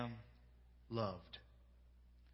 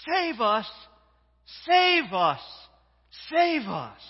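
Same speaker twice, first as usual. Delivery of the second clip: loud, high cry for rescue; full-voiced acted shout, pitched high; crowd shouting; 7 semitones higher, 9 dB louder, slower than usual. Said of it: "they would have been shouting these words".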